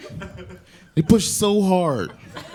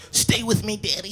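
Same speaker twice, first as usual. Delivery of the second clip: put-on pleading kid; 5 semitones higher than usual. Son on toilet pleading.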